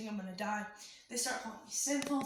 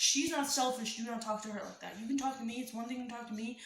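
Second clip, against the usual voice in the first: angry defense; 4 dB louder than usual. Retold or imitated. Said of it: "obviously I'm irritated and I'm angry".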